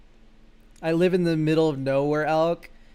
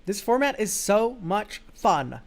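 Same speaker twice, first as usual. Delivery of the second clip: slow, drawn-out gushing praise; lingering, exaggerated fondness; sales pitch delivery; 3 semitones higher, slower than usual. Shown as a demonstration. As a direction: sell the format like you mean it. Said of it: "You have to say it like that too".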